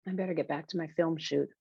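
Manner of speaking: soft, gentle brush-off. Acted. Emmett ending the phone call to get back to filming, gently. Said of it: "says, uh, Emmett gently".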